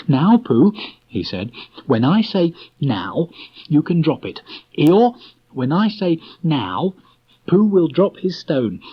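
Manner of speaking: a commanding little rabbit giving the count; bossy Rabbit. A narrator's reading.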